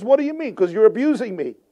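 indignant Bilam. Acted. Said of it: "And Bilam says".

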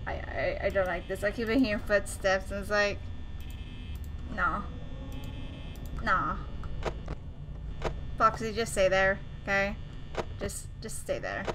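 low, soft and jittery, scared to speak up; tense hushed murmur alone in the dark; nervous hushed voice. Real, not acted. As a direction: hold your breath and murmur through the fear. Scared alone at night in game.

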